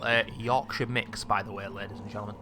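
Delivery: talking around a mint; sucking a mint. Real, not acted. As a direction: mint in the mouth, words slightly blurred. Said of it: "I'm sucking on a mint".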